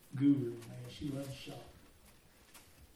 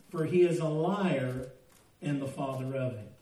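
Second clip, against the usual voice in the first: scripture reading. Acted. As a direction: read the verse out with weight. Reads the King James verse aloud.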